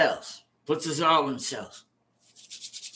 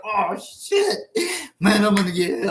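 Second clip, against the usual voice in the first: retold panic; 5 semitones higher, 3 dB louder than usual. Scared inmate's inner panic.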